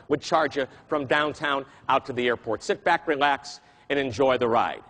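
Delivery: a hint of the low Texan driver; deep Texan voice. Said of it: "I won't get as low as he can go".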